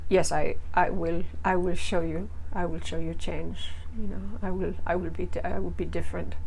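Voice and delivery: soft, halting, half-hearted promise; deadpan pledge with no conviction behind it; mock unconvincing. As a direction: imitate a limp, unconvincing promise to change. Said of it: "in the most unconvincing voice".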